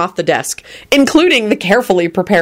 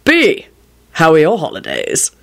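pleasant. A narrator's reading. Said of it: "he said pleasantly".

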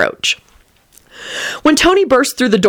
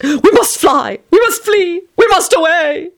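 dire intoning; 12 semitones higher than usual. A narrator's reading. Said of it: "he intoned direly".

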